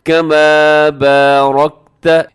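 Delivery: कमा बारकत slowly, with rounded heavy "raw"; loud chant, only the r of बारकत thickened; thick raa. Shown as a demonstration. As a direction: draw out बारकत with emphatic r. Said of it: "इसमें रा मोटा पढ़ा जाएगा".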